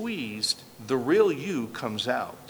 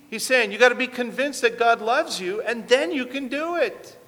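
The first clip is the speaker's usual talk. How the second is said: fervent urging; 9 semitones higher, 4 dB louder than usual. Real, not acted. Preacher pressing home the point.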